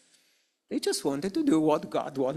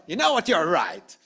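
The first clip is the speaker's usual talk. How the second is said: insincere concession. Acted. Arguer giving in to end the dispute, insincerely conceding. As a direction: concede only because you're tired of fighting. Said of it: "it was in that tone".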